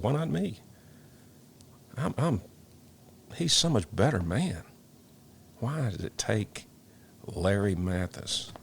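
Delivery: crying out why him and not me; anguished question. Retold or imitated. Firefighter reliving his grief, asking why not me, anguished and slowing. Grief-stricken self-quote about the loss.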